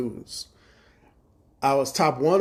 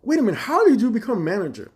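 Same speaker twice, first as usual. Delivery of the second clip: challenging; 8 semitones higher, 5 dB louder, faster than usual. Retold or imitated. Challenging the manager.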